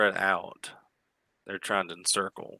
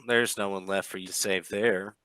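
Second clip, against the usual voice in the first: villain voice. Acted. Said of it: "She says".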